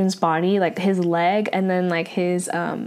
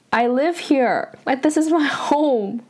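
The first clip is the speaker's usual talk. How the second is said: higher, lightly pleading retelling; mock crying; 5 semitones higher than usual. Scared girl tells an angry man this is her home, mock crying. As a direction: plead a little, imitating someone upset. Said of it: "She's, like, crying".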